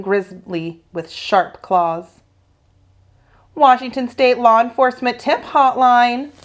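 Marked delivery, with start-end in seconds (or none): 3.5-6.3 loud, higher official phone greeting; a hotline man blaring down the phone. Acted. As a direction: announce it like a busy hotline operator. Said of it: "a voice blared in my ear".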